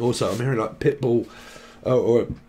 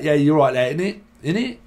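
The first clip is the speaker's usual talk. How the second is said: Ali G impression; 2 semitones higher, 3 dB louder than usual. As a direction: lay back and sing out "in it, in it" like a London lad. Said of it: "Talk like that".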